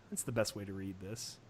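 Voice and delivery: low raspy reading voice. Real, not acted. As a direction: rasp it out low and rough. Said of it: "Raspy as fuck".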